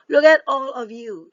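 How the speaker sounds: loud, joyful exclamation; mama duck greeting her babies with joy. Acted. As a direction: burst out happily at the ducklings. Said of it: "said Mama Duck with joy".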